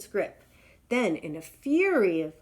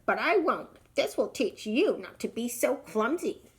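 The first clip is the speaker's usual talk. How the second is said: snapping; 4 semitones higher than usual. Acted. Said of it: "Snapped the bird".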